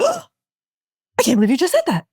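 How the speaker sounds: high, stunned gasp of disbelief; reeling at what he just said; shocked disbelief. Retold or imitated. Mother shocked at friend's words, high stunned disbelief.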